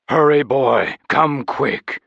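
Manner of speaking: loud urgent summons, lightly voiced knight; a hint of a booming knight; knight's call. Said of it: "a deep voice boomed".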